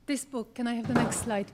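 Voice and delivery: usual speaking voice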